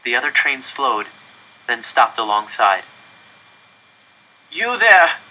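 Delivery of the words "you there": shouted high across the tracks; calling out. A narrator's reading. Stranger calling across the tracks, a loud shout. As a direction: call loudly across to the other train. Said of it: "someone called from across the way".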